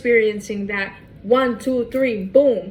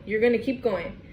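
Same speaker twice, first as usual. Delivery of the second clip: "You're gonna keep going" said again, softer; a quieter echo of the line; softer repeat; 5 dB quieter than usual. Shown as a demonstration. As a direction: let the repeat drop in volume. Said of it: "repeated for emphasis".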